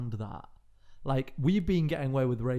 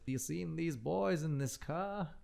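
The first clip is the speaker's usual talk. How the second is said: redneck stranger; 3 semitones higher, 6 dB quieter, slower than usual. Retold or imitated. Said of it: "And he goes".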